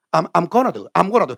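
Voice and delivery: "I'm" shortened to "am" before "gonna do"; American-style clipped "I'm"; American reduced pronunciation. Shown as a demonstration. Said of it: "미국 발음이 어려워".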